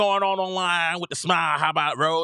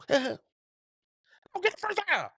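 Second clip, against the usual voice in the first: laughing urge; 12 semitones higher, 5 dB quieter than usual. Retold or imitated. Urging player, laughing.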